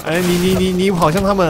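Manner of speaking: 激动大喊. Real, not acted. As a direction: shout in disbelief at a teammate. 看队友冲向敌人. (激动高喊)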